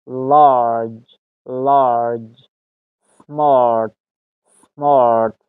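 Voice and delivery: slow "لارج" with a stretched open vowel; long "ah" demo. Shown as a demonstration. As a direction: model "سمارت" word by word, drawing out the "ah". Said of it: "ساوند آ".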